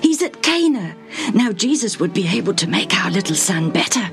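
high, eager father with news; hopeful excitement. A narrator's reading. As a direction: break the news urgently to the wife. Father bringing hopeful news to wife.

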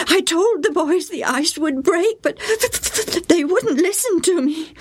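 put-on high, aggrieved boy's voice; sulky child; grumbling boy. A narrator's reading. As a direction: complain it wasn't fair. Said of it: "Joe grumbled".

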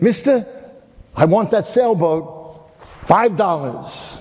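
put-on a boy proudly paying his money; lightly voiced boy, slow and earnest; eager boy. Boy buys boat back.

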